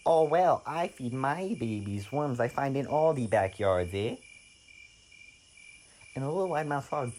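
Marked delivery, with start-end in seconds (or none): 0.1-4.2 a hint of goose, ending on a questioning eh; chatty mother goose. Storyteller voices mother goose.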